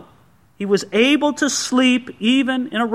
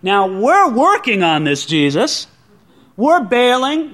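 slow, indignant protest; protesting disciples; slower than usual. Retold or imitated. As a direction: complain to Jesus, slowly. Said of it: "In other words".

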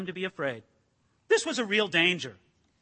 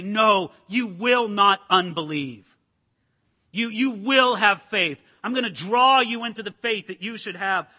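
determined insistence; 2 semitones lower, 5 dB louder than usual. Pretend. Moses gripping the people, loud and determined. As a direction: press each word into them. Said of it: "grab a hold of the people and say".

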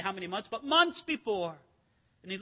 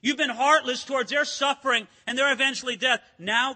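God rebuking Pharaoh, louder and pressing; forceful divine accusation; God's louder rebuke; 5 dB louder than usual. Acted. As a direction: press the charge hard as God. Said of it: "God says".

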